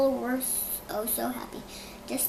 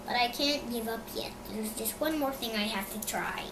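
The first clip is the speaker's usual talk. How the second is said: mumbling; 6 dB quieter than usual. Acted. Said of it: "he mumbled".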